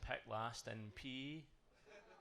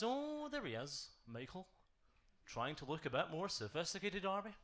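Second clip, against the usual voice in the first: mocking taunt; 6 semitones higher than usual. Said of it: "He goes".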